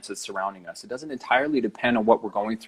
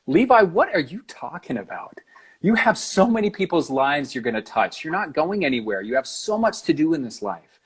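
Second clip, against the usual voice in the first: acting out a wife's loving protest, a little raised; lightly voiced insistence, leaning on key words; mildly reproving encouragement; 3 semitones higher than usual. Wife talking her wounded husband out of goodbye, mild insistence.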